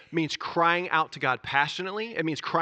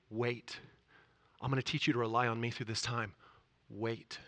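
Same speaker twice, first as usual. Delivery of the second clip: soft, lower, tender; gentle God voice; 4 semitones lower, 6 dB quieter than usual. Acted. God telling a praying child to wait, tender. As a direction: reassure them quietly.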